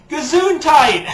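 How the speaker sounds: high, loud playful gesundheit; mock bless you. Answering the catch sneeze joke, playful high call.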